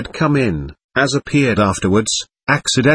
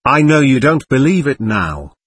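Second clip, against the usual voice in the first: a sudden, higher burst of feeling; sudden cry; 3 semitones higher than usual. Acted. Mitya suddenly pleading with Katya, a sudden cry. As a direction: blurt it out before he can stop. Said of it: "cried Mitya suddenly".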